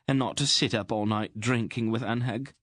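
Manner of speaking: worried plump queen pleading; fretful little queen. A narrator's reading. Queen begging Aunt Paul to keep the king safe, fretful.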